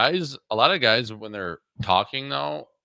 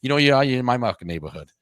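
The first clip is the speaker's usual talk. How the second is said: Boston tough guy. Retold or imitated. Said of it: "you should do an hour of Boston guy like that".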